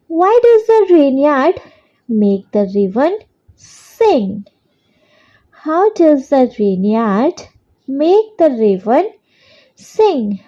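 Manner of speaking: very slow, word by word for copying down; slow dictation. Shown as a demonstration. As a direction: dictate it so children can write along. Dictating fourth question.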